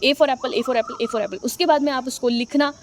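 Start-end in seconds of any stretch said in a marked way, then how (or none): 0.0-1.4 put-on slow drill for a child. Shown as a demonstration. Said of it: "बोलना सिखाइए".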